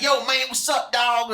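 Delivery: exaggerated slangy shout-out; mock slang greeting. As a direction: put on a casual homeboy greeting. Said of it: "this is how we talk. We ain't like".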